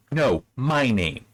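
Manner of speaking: "No, my name" slow with a hard fall on "No"; dry sarcastic comeback; sarcastic retort. Shown as a demonstration. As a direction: hit the "No" with energy, then drop. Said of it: "it should be".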